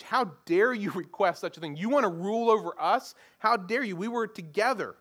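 indignant outburst with a touch of hammed-up outrage; acted rage. Preacher voicing the ten disciples to James and John, acted indignation. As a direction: confront the two who betrayed the group, mock-furious. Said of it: "It's rage".

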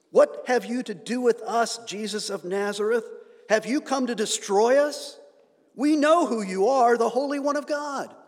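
loud, high shout of a cornered demon; hammed-up demon shout at Jesus; demon crying out. Demon addressing Jesus, quoted.

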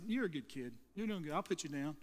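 low, soft retold reassurance; gentle reassurance. Crew leader calming the kicking kid he holds, gentle reassurance. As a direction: soothe a small child quietly. Soothing a held kid in story.

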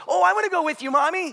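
put-on child begging. Father imitating son begging to go with mommy. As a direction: beg like a small child tagging along. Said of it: "one of my boys goes".

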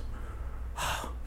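long breathy sigh, acting out tears; imitated crying breath. Pastor breaking down in prayer, imitated tearful sigh. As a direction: let out a heavy, wordless breath as if starting to cry. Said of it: "he starts crying".

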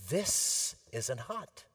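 put-on slow, smug little-girl claim; lightly voiced arrogant child; confident arrogant. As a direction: say it like a defiant child. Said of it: "said very confidently and arrogantly".

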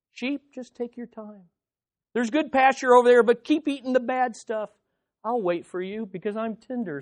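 hammed-up meek shepherd voice; passive shepherd. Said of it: "He doesn't just say".

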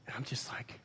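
breathy whispered aside; fed-up dad whispering as the repair news lands; exasperated whisper. Real, not acted.

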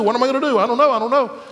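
high, fretful self-questioning; mock helpless repeating; at a loss. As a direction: play someone grasping for answers. Acts out people grasping for answers.

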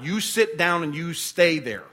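slow, firm parent laying down the law; stern parent. Retold or imitated. Parent ordering a child to sit down, slow and firm. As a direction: tell a child to stay put. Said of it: "like a parent telling a child".

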